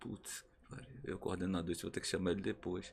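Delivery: quiet, soft, muttered aside.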